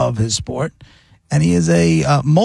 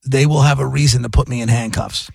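measured, controlled retold warning; even, deliberate delivery of a threat; calm threat. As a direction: imitate a father gone ominously calm. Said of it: "this calm fell on top of him".

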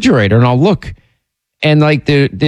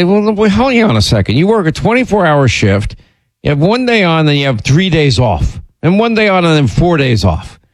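mock-incredulous, pitch jumping up on the opening; teasing ribbing; 4 semitones higher than usual. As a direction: needle your buddy, half-joking. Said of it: "I'd say".

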